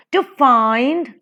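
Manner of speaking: "to find" with FIND stressed; light "to", strong "find"; iambic stress. Shown as a demonstration. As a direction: lean on "find" in "to find". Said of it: "unstressed and stressed".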